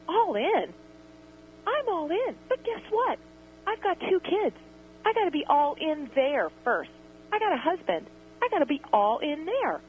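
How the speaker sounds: high-pitched, heated comeback; exasperated retort. Retold or imitated. Host retelling what she told a man who doubted her, in a high exasperated voice. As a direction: pitch it way up in frustration. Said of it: "And I said to him".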